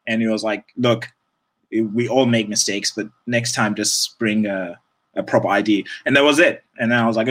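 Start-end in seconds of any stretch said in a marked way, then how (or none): 0.8-5.8 calm settled colleague. Retold or imitated. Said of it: "really sort of, like, settled".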